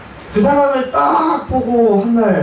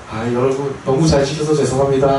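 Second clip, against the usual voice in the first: sheepish apology; 5 semitones lower than usual. Retold or imitated. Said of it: "이렇게 사과를 했죠".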